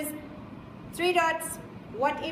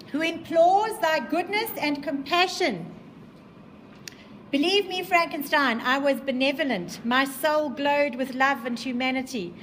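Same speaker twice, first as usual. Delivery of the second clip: dramatic reading. Acted. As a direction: read it out big for the class. Reading the creature's speech aloud.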